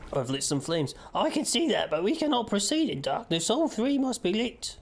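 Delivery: high, slow eerie cult member; cultist voice. Acted. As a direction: intone it like a cult fanatic. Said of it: "So I'm doing my best, um, cultist voice".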